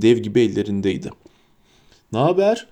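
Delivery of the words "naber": roaring. A narrator's reading. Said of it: "diye kükredi".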